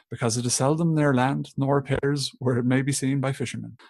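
sailor impression. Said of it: "do your best sailor impression now".

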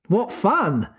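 a touch of half-hearted cheer; doubtful. A narrator's reading. Father unsure of his own joke, doubtful. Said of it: "he said doubtfully".

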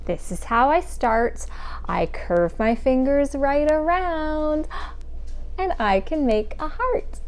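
lilting singsong verse with stretched words; hand rhyme. Acted. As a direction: recite line by line, pausing for little hands.

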